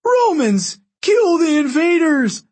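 high, drawn-out rallying scream. A narrator's reading. Octavian orders the Romans to attack, screaming. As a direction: scream the order to a whole army. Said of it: "Octavian screamed".

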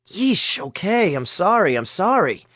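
exasperated, placating apology; hasty apology. A narrator's reading. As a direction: give in quickly, apologizing over and over. Backing down after a threat.

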